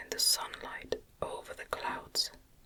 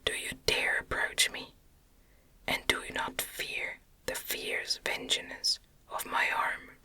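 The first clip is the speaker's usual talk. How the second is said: furious whisper. Acted. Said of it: "words expressive of furious detestation and contempt".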